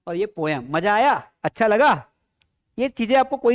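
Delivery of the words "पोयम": पोयम in two syllables, "po-yam"; wrong reading of poem. Shown as a demonstration. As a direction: say पोयम with a y glide in the middle. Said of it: "इसको पोयम नहीं पढ़ते".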